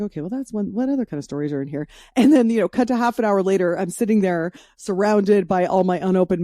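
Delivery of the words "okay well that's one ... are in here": low, soft, quickening musing; retold thinking aloud, quietly curious; quoted inner thought. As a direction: say it under your breath, getting quicker. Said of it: "I was like".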